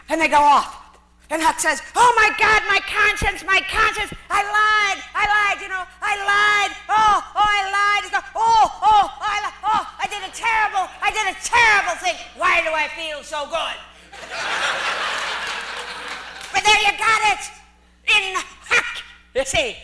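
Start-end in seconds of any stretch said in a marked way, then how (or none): 1.9-12.2 hammed-up anguished Huck; Huck's anguish. Huck's guilty outburst acted. 12.4-16.5 laughing through the line; chuckling delight. Retold or imitated. Huck's punchline into laugh.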